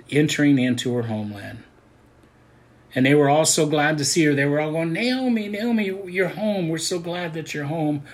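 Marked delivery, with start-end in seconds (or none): 4.9-8.0 high, bright greeting voice calling her name; joyful welcome. Retold or imitated. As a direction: call out to her like glad neighbours. Townspeople greeting Naomi joyfully.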